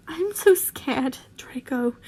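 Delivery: frightened whisper, slow and breathless; scared whisper. Acted. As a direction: whisper your fear, slowly, to Draco. Harry scared after crying.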